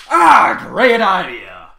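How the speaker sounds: loud, very slow, high delighted shout; excited shout. Acted. Trevor loudly jumps at Apple Bloom's idea. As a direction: burst out with enthusiasm.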